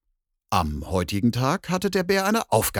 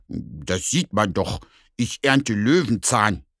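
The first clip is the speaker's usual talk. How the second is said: grumpy bear; slower than usual. Acted. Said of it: "antwortet der Bär grummelig".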